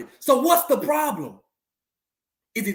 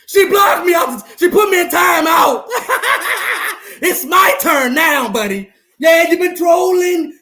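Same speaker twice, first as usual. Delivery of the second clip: gloating shout; 3 semitones higher than usual. Real, not acted. Gloating at rival fan online.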